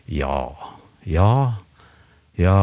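ja said with shifting tones; varying intonation. Shown as a demonstration. Showing how tone signals mood, with varied ja. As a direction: play mood tones across the yeses. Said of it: "Jeg kan jo gjøre det på norsk".

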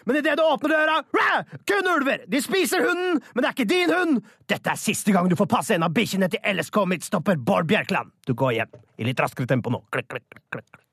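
hammed-up radio drama, shouted monsters and sound effects; overdreven hørespill. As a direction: act the wolf drama wildly, yelling the beasts. Performs a wolf radio drama. (overdrevet hørespill med rop og lydeffekter)

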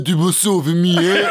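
slow, drawn-out silly voice; feed the advice slowly in a strange voice; odd put-on voice. Friend repeating earpiece advice to the heartbroken, odd slow voice. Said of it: "Hvorfor snakker du sånn egentlig?".

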